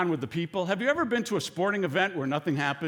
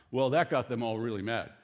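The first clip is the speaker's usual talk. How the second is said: ordinary delivery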